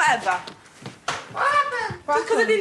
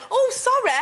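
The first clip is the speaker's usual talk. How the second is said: higher-pitched polite apology, retold; nice, polite; 4 semitones higher than usual. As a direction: replay your own courteous little apology. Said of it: "in a nice, polite way".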